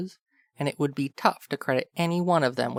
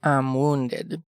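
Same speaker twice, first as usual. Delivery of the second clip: sarcastic. Acted. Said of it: "mostly sarcastically".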